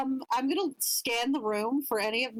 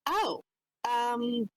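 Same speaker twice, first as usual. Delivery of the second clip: taken aback; 3 semitones higher than usual. Acted. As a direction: lose your coy composure for a moment. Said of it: "her mouth, like, just dropping a little bit".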